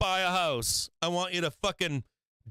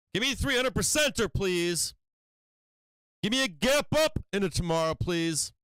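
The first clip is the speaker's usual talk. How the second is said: pleading with the market; 3 semitones higher than usual. Real, not acted. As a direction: beg the ticker to rip. Begging the stock at the bell.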